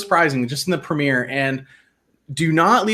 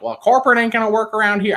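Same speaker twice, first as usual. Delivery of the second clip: imitating Sue's Southern drawl; 7 semitones higher than usual. Retelling Sue's jab at Richard in a mock Southern accent. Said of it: "I can't do her accent".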